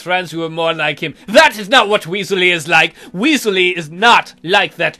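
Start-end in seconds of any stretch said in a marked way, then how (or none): 1.3-5.0 mock indignant. Defending toy against Mom.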